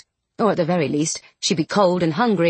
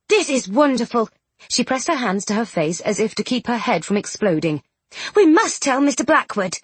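excited; 4 semitones higher than usual. Acted. Charlotte delighted.

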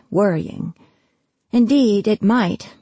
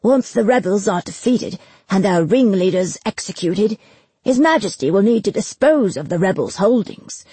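lightly voiced scheming official, emphatic; pompous bailiff Granger; 2 semitones higher, 3 dB louder than usual. Bailiff proposing marriages into rebel families, self-important.

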